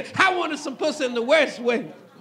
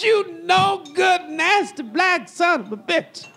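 angry wife yelling; 4 semitones higher than usual. Retold or imitated. Wife catching her husband with the pig, furious yelling. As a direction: scold him like a wife who caught him red-handed.

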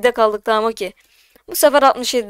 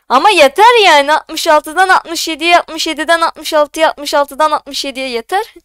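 louder, higher fed-up outburst at the start, easing off; exasperated rant; 3 semitones higher, 4 dB louder than usual. Real, not acted. Streamer begging the count to stop bouncing, exasperated. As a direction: rattle off the complaint, fed up.

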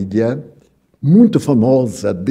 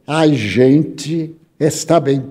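"a gente está bem" spelled out slowly with weight on "está"; slow clear demo; much slower than usual. Shown as a demonstration. Lecturer explaining where oxente comes from, saying it slowly. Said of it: "que era".

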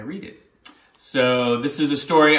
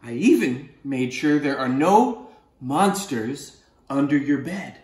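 reassuring octopus; slower than usual. Acted. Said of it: "the octopus says".

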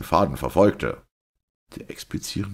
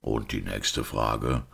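slow, lower-pitched priest; composed priest; 5 semitones lower, 3 dB quieter, slower than usual. Acted. Priest inviting the doctor's next question, composed. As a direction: ask slowly, as a composed priest.

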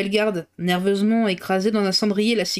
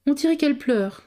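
baroness voice; 6 semitones higher than usual. A narrator's reading.

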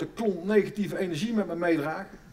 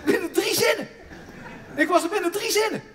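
higher and louder, triumphant; triumphant boast; 11 semitones higher, 3 dB louder than usual. Real, not acted. Comedian boasting to the audience, higher and louder. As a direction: crow about the quick win.

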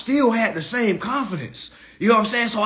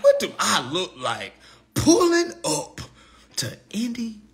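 laughing retort; 3 semitones higher than usual. Retold or imitated. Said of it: "but I was like".

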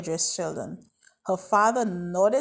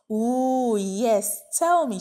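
high, loud eager demand; a child insisting on a story; eager order; 4 semitones higher, 5 dB louder, much slower than usual. A narrator's reading. Peanut demands EMT's stories about her daddy, excited. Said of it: "she ordered".

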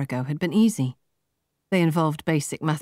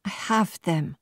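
defensive; 3 semitones higher, slower than usual. A narrator's reading. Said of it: "said Marta defensively".

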